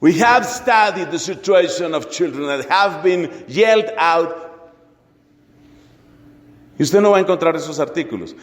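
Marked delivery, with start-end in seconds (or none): 0.0-4.3 slow, deliberate English quotation; measured mock-academic English; mock abstract reading. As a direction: read it out slowly like a journal abstract. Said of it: "en cuyo abstract se lea".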